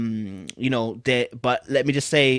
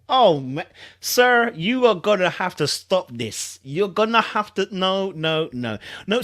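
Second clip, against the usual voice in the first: mock interruption; 5 semitones higher, slower than usual. Real, not acted. Interrupting the statement he reads.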